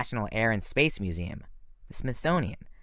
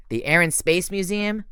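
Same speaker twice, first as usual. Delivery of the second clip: higher, irritated Luke correcting him; irritable correction; 8 semitones higher, 4 dB louder than usual. Acted. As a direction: fix his mistake with annoyance. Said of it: "Luke corrected irritably".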